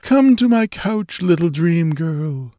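high, languid, sensuous reverie; dreamy murmuring. A narrator's reading. Dreamy stranger wooing the girl, murmuring sensuously. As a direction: linger over each image, high and dreamy. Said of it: "he murmured".

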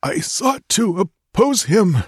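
high, slow gurgling dying voice. Acted. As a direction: speak through blood in the throat. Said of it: "gurgled Tecuhtli".

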